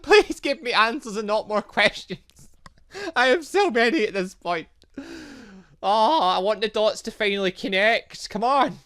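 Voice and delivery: high, loud, laughing begging; eager pleading. Real, not acted. Player begging the boss for answers, high and loud.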